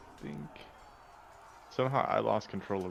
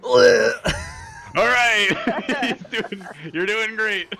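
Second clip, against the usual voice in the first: laughing, high cheerful encouragement; excited cheering; 13 semitones higher, 9 dB louder, much slower than usual. Real, not acted. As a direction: cheer him on, delighted. Cheering on companion's sneak attack.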